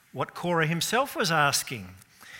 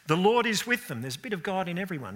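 high, raised mock protest; mock objector quote; 6 semitones higher, faster than usual. Preacher voicing skeptics' complaint, mocking and raised. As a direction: toss it out like a skeptic's slogan.

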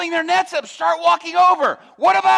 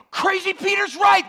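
excited shout; 4 semitones higher than usual. Retold or imitated. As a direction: rush everyone to the boats. Crews suddenly rushing to fish.

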